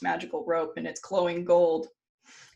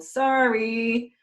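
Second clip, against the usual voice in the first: drawn-out, higher mock sorry; insincere apology; 4 semitones higher, 3 dB louder than usual. Storyteller as Odin dooming Fenrir, mock-apologetic. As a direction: sing out a sorry you don't mean.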